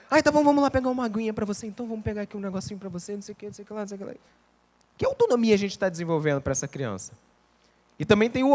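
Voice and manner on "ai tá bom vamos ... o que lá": hurried coddling parent voice, fading away; doting parent. Retold or imitated. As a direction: rattle off the pampering like a parent who does everything.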